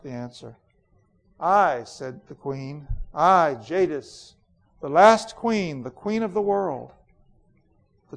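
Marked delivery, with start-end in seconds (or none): 1.4-1.8 cold, imperious queen, a touch louder; proud queen Jadis. Acted. Reads Jadis's lines. 3.1-6.9 proud queen Jadis. Acted. Queen's proud self-naming.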